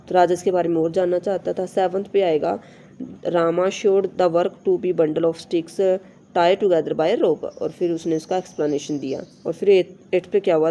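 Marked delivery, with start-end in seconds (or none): 3.3-7.4 slow, careful reading of the English text; slow textbook reading. Shown as a demonstration. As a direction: read each word out slowly for the class. Reads textbook sentence aloud. (धीमी, साफ़ पाठ्य-पुस्तक पढ़ाई)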